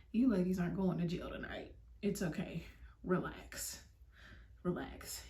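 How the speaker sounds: imitated calming voice; soothing officer. Retelling officer calming crying friend.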